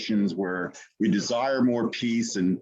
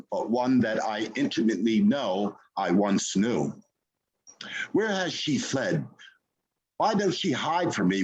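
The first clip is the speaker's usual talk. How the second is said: poem reading. Acted. Poet reading Peace Be Still to the open mic, solemn. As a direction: read it like an appeal to the spirit.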